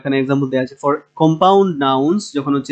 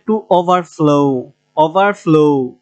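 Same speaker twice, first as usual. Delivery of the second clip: overflow with the final "flow" held and pushed; end-stressed overflow, as a teacher models it; much slower than usual. Shown as a demonstration. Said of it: "ফ্লোটা হবে".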